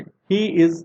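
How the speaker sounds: each letter of M L A said apart, very slowly; slowly spelled out. Shown as a demonstration. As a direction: read it out letter by letter for the class. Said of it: "इस example को भी ध्यान से देखें".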